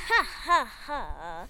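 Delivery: spoken mock laugh, falling at the end; villain's mock laugh. A narrator's reading. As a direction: gloat with a spelt-out laugh. Villain Puck gloats at the girls.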